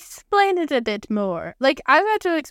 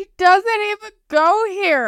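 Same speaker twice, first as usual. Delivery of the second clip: movie quote voice; 9 semitones higher, 5 dB louder than usual. Pretend. Quoting Mean Girls line.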